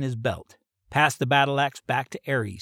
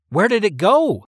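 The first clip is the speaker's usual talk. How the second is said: puzzled; 7 semitones higher, 8 dB louder than usual. Acted. Lost dragon, puzzled question.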